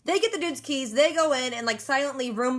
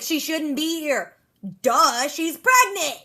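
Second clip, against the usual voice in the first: slow, drawn-out scolding as Carol, "duh" landing louder; mock exasperated; 3 semitones higher, 4 dB louder, slower than usual. Carol scolding Rick about pregnant Maggie, slow exasperated drawl. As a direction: spell it out slowly like it's obvious.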